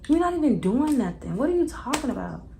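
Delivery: high-pitched, playful fake innocence; mocking denial. Friends laughing at her complaint, high mock innocence. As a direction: play dumb, amused and high. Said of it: "They both start laughing".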